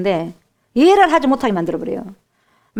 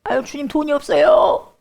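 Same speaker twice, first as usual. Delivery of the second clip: higher mock complaint; whining to the Lord; 6 semitones higher than usual. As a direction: moan to God about money. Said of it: "돈이 없을 때 울어요".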